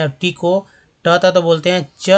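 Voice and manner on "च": letter T sounded as "च", like ch; T read as च. Shown as a demonstration. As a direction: say a lone "च" as in chat. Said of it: "उच्चारण होता है".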